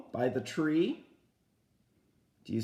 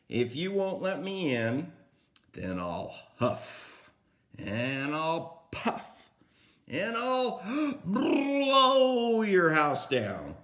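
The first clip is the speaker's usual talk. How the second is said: big bad wolf threat; 3 semitones higher, slower than usual. Storyteller voicing the wolf threatening the pig, slow building menace. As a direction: build the threat, then blow the house down.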